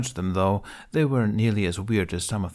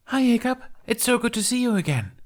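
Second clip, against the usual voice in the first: bubbly Tooth. Acted. Tooth greeting the audience after the show, bubbly and eager. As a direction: bounce every word with delight.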